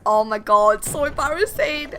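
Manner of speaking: laughing as the words come out; laughing embarrassment. Retold or imitated. Thinking back on the police van, embarrassed laughing. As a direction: cringe and laugh through it. Cringing at her memory.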